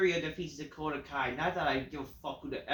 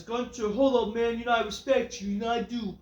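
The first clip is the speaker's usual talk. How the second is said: higher, rising hype promo as Jey Uso; an excited wrestler promo, getting higher; imitating Jey Uso; 5 semitones higher than usual. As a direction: pump it up like a wrestler cutting a promo. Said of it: "Jey Uso then says".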